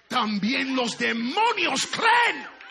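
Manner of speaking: loud, high, drawn-out preaching cry; preaching at full force. Acted. Preacher crying out that even demons tremble. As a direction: cry it out, slowly, building.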